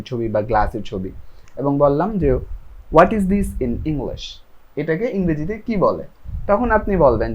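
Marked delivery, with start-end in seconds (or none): 2.9-4.4 slow model question. Shown as a demonstration. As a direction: stretch every word slowly. Teacher models English question.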